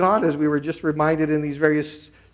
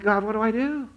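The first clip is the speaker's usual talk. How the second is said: higher, imitated pleading prayer; retold plea; 7 semitones higher than usual. Woman asks God what to do, pleading. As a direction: plead upward as the praying woman. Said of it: "she's like".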